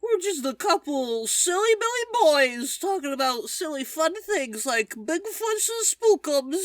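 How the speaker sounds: puppet voice. Acted. Aiden the puppet's intro.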